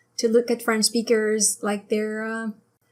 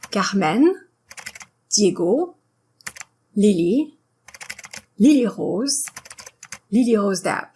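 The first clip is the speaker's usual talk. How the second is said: last syllable of "Carmen, Diego, Lily" lengthened; French final stress. Shown as a demonstration. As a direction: stress the end of "Lily Rose Depp", French style. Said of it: "make the last syllable a little longer".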